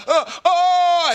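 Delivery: high, loud mock yelp of alarm; startled yelp. Guy in a bug-filled yard yelps in alarm. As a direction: yelp like a mosquito just landed on you. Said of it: "And the man is like".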